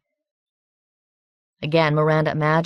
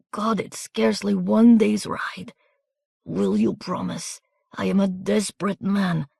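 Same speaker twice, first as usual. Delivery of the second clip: wounded soldier begging Miranda to carry his papers; desperate weak plea. A narrator's reading. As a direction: beg while your strength fails.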